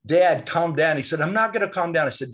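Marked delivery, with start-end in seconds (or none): 0.1-1.0 mock urgent plea. Son pleading with angry father. 1.2-2.1 mock angry refusal. Father refuses to calm.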